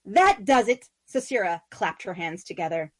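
a bright, wistful spider queen longing for the moon; Sisera's voice. Acted. Sisera announces her gift.

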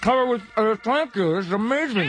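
very high, loud gushing thanks; squealing delight. Acted. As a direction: gush thanks through the food.

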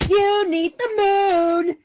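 high, loud, slow gloating accusation; triumphant accusation. A narrator's reading. Sisera accusing her wife, triumphant and loud. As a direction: crow it out, cheerful and vicious. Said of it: "accused her, cheerfully, viciously, triumphantly".

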